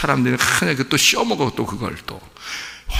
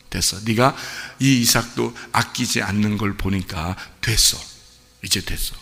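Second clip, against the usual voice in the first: gentle reassurance; 3 semitones lower than usual. Acted. God calmly releasing Abraham.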